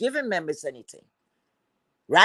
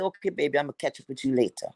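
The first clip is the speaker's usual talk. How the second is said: lower, softer mock brush-off from a hustler; imitating sweet-talking boyfriend; 7 semitones lower, 7 dB quieter, faster than usual. Boyfriend putting off the woman he hustles, mock sweet-talk. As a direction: toss it off low and quick, mimicking him.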